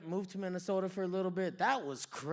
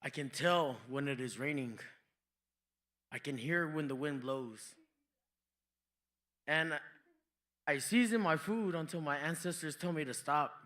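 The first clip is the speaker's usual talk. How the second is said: low, grave mock-mystic tone; lightly voiced solemn native elder; mock wise elder; 4 semitones lower than usual. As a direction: intone it like an ancient sage. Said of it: "I was like".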